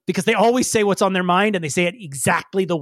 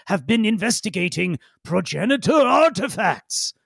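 box voice; 3 semitones higher than usual. Acted. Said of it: "the voice says".

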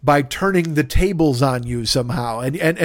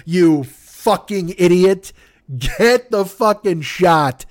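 slow angry; 3 semitones higher, much slower than usual. Retold or imitated. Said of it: "I'm like".

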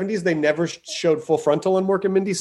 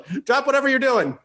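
raised pitch, mock urgency; pretend urgent call; 7 semitones higher than usual. Host pretends to ring Nolan about a project, mock urgent. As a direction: blurt it into a pretend phone call.

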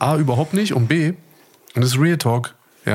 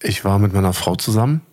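hammed-up betrayed-husband monologue; mock-solemn confession. Husband telling listeners about his wife, mock-solemn confession.

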